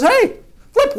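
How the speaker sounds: high-pitched sister calling out; mock sister voice. Sister inviting her brother to race, high mock girl voice.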